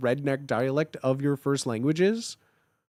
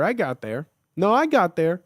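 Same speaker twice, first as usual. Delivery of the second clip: usual speaking voice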